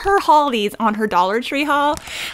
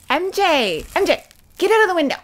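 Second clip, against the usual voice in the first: calling out; 7 semitones higher than usual. Real, not acted. Shooing her dog from window.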